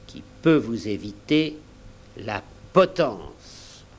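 bold challenge, firmly punched key words; dramatic confession thrown in their faces; defiant speech. Acted. Jim defies the pirates.

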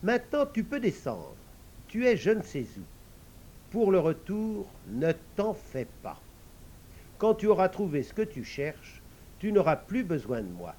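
a hint of a kindly frog giving advice; frog speaking. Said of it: "elle dit à son cavalier".

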